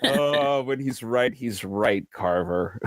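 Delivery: amused, chuckling taunt; laughing agreement. Acted. Rode laughing at Carver being insulted, gleeful. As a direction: say it through acted amusement. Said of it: "Ro just laughs wildly at all this".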